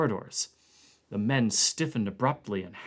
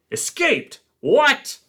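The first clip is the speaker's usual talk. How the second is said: high, loud startled cry; shocked disbelief; 10 dB louder, slower than usual. Acted. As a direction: jolt up in alarm and shout it. Blair shocked at the news.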